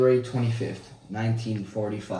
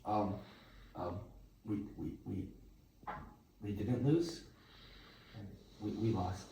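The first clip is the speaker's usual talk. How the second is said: embarrassed stammer; 10 dB quieter than usual. Acted. Cornered about losing the battle.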